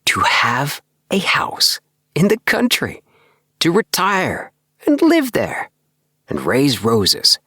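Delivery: confiding his dream with growing excitement; a young man's breathless hope of a country house; excited. Acted. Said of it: "His voice was alive with excitement".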